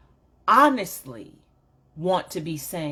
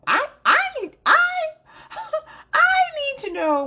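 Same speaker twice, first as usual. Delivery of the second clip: laughing; 5 dB louder, faster than usual. Real, not acted. Y'all know that I'm a talker.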